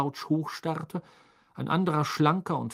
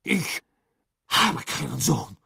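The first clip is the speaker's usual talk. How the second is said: barked; 2 semitones higher, slower than usual. A narrator's reading. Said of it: "bellte Crouch".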